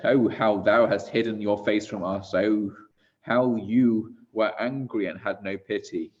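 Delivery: measured liturgical mourning, swelling on the outcries; solemn lament recitation. Acted. Mourner addresses God about the martyrs, solemn lament recitation.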